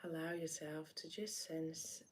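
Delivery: gentle meditation lead-in with long pauses; guided meditation. Acted. Meditation host inviting listeners to breathe and sense the body, guided meditation. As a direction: ease listeners in, unhurried, leaving space between phrases.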